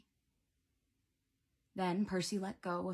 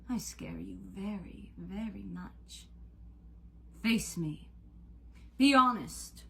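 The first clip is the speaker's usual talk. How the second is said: louder, slow taunting deity; menacing god voice; 3 semitones higher, 3 dB louder, slower than usual. Acted. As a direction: loom over him as a cruel god. Cupid speaks.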